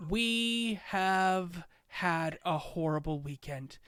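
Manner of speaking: slow, solemn civic address; steady the crowd with gravity; mayor turns solemn after a horrible weekend, slow; serious speech. Acted. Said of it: "then she gets really serious".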